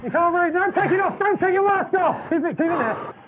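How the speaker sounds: very high-pitched insistent shout; urgent shouted orders. Real, not acted. Instructor to breathless trainee in gas mask, shouting. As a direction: stop him pulling the mask off.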